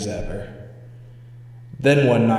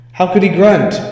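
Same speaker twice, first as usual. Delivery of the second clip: alarmed disbelief; 8 semitones higher, 9 dB louder than usual. Acted. Frightened disbelief at doll.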